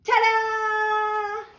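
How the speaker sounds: high, loud showman flourish; a frog prince revealing his costume; triumphant ta-da. Acted. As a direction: present yourself proudly. Froggy shows off costume.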